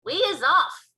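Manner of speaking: loud, high, rousing cry; excited giant's shout. A narrator's reading. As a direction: call out the departure. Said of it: "cried the B F G".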